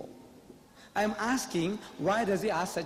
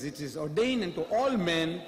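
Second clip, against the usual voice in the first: scripture quote. Acted. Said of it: "It says".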